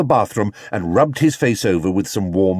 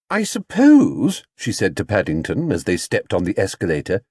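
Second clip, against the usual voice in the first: Mrs Brown. Acted. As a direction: tell the bear he must be carried.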